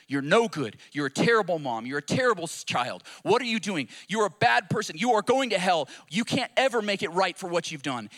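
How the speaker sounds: loud, hammering accusations; a forceful condemning accuser, still in a preacher's voice; the enemy's accusing voice. Retold or imitated. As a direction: drive each accusation home forcefully. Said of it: "the voice of the enemy".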